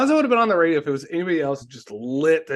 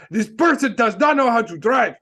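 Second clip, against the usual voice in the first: bad mock Spanish accent, higher and worked up; exasperated, hammed-up Spanish-accented complaint; Alonso; 7 semitones higher, 4 dB louder than usual. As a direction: rant over the radio in a badly faked Spanish accent. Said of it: "when that's bad accent".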